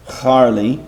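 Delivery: "Charlie" said as "Harlie", with a throaty h from the chet; Hebrew pronunciation. Shown as a demonstration. Teacher showing students how Hebrews read "Charlie": throaty h. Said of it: "that would be pronounced".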